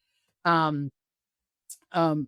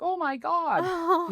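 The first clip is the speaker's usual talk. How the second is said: high, long-drawn astonished cry; stretched-out, high-pitched mock astonishment; imitated amazement; 12 semitones higher, much slower than usual. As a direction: mimic a whole group gasping in wonder. Everybody reacts in amazement, retold.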